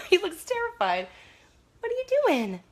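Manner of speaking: squeaky, high pet-talk voice. Real, not acted. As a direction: coo at the dog in a high voice. Baby talk to her dog.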